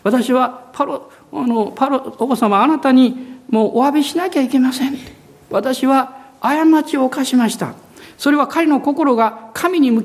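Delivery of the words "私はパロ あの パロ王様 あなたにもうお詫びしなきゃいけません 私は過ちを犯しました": humble confession. Acted. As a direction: plead humbly as a servant confessing to a king. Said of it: "へり下ってるんです".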